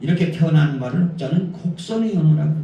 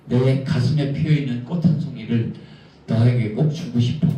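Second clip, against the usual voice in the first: tender lyrical; 4 semitones lower than usual. Shown as a demonstration. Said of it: "이렇게 말해야지 사랑이 더 이루어지죠".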